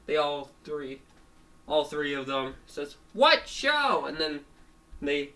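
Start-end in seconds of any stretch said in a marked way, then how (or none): 3.1-4.1 high, loud mock bafflement; baffled outcry. Animals puzzled by Fango's remark, baffled outcry. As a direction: cry out in cartoon confusion.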